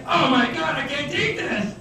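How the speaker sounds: high-pitched, hammed-up inner despair; inner outcry. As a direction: act out a lovesick mind in mock agony. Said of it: "what goes on inside".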